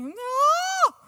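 a high, loud overwhelmed no; frazzled shout. Retold or imitated. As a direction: snap it out at the end of your rope. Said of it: "you come home and you're like".

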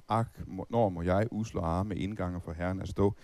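hymn recitation. Acted. Preacher recites the hymn to the congregation, slow and measured. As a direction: read the old hymn lines slowly like a poem.

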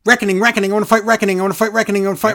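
mocking Woods. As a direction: pester like a broken record. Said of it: "He's like".

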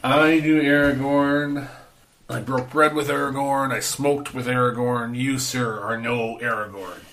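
slow, weighty opening; grave, drawn-out dismissal; mean put-down. Acted. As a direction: deliver a pointed, mean put-down. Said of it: "That came out meaner than I thought".

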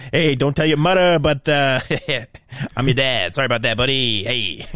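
lightly voiced villain as casual dad; chummy, apologetic spoof of a dark lord; a hint of a sheepish buddy dad; Darth Vader. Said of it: "Darth Vader with my voice sounds".

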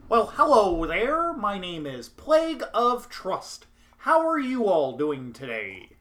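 a hint of a Muppet frog; Kermit the Frog. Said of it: "my best Kermit the Frog impression".

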